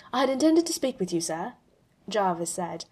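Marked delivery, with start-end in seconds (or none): 0.1-1.5 fast, stumbling, a touch higher; nervous rush. Acted. A hint of the AI nervously explaining itself to Tony. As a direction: trip over the words nervously. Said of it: "almost tripping over himself. Nervous".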